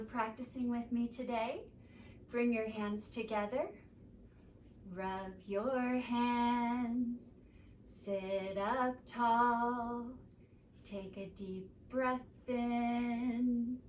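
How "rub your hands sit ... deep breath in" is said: very slow, soothing guide; slow everything down for the close; calm closing. Acted. Teacher winding down kids yoga, slow and calm.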